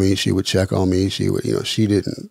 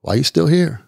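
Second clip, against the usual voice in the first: a hint of a taunting devil, pitched higher; 5 semitones higher than usual. Devil goading a man sitting alone on the floor, mildly taunting and higher. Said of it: "I hear the devil talking about".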